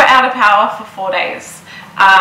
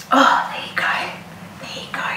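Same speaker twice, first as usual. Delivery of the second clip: whisper; 3 semitones higher, 7 dB quieter than usual. Real, not acted. Soothing the baby softly.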